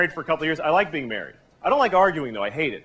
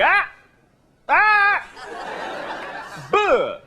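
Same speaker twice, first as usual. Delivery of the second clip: spaced-out name shouts; 12 semitones higher, much slower than usual. Pretend. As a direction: bark each piece of the name apart. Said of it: "put spaces in his name, like".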